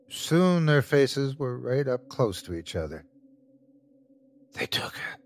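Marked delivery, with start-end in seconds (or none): 4.5-5.2 hushed, chilling whisper. A narrator's reading. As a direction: whisper it like a dreadful secret. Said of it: "the man whispered".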